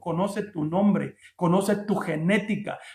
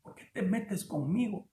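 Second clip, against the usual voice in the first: God; 2 semitones higher, slower than usual. Acted. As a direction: call out the name, then slow right down and drop the volume. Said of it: "viene Dios y le dice".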